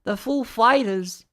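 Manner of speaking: a hint of Walken's odd stress; Christopher Walken. Quoting how Walken announced the band, loud. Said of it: "Christopher Walken saying".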